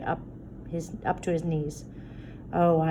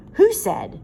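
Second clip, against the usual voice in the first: sharp demanding; 8 dB louder than usual. Acted. Sharp challenge in argument.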